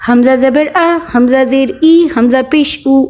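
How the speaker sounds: "अ", "ई", "ऊ" said promptly without a jerk; quick reading. Shown as a demonstration. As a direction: spell out each vowel quickly and smoothly, ending on "ऊ". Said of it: "इसे पढ़ा जाएगा जल्दी से".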